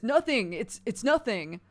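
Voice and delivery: loud, flustered denial; defensive shout. Acted. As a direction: blurt it out to hide something. Cal hides the creature defensively.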